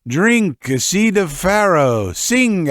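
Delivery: put-on drunken shout. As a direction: bellow it at the party. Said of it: "Frolov shouted to them".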